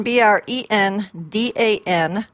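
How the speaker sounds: each letter said separately; spelling it out. Shown as a demonstration. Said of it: "let me spell that out".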